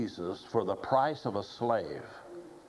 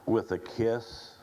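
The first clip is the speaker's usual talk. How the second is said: gently. Retold or imitated. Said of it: "He just gently says".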